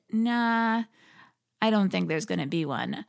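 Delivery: mild mock shrug, brushing it off; lightly imitated offhand cousin; dismissive quote. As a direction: toss it off like it's a joke. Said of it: "as if it was a joke".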